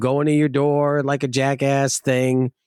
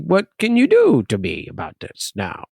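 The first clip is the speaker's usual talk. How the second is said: cute taunting. Retold or imitated. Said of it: "Real cute, like, say it".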